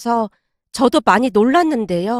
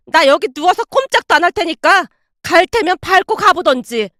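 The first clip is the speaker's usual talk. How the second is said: shouting; 3 semitones higher than usual. Acted. Mother-in-law yelling at daughter-in-law, angry shouting. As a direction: lay into her, daring her. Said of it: "시어머님이 다시 소리치고 있었습니다".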